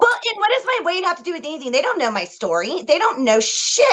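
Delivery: venting to the co-host about the commenter, mildly angry; mild anger. Real, not acted. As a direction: still stung, pushing back. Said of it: "That was mild Susan angry".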